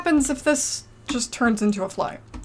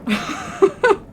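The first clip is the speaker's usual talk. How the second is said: high laugh; 10 semitones higher than usual. Real, not acted. Laugh after rant.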